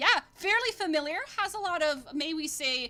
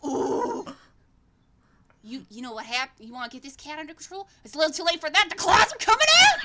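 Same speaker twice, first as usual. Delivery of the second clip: ramp up to a menacing battle cry; rising threat; 4 semitones higher, 9 dB louder than usual. Acted. Hubert turning on the twin, building to a loud high snarl. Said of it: "he's like".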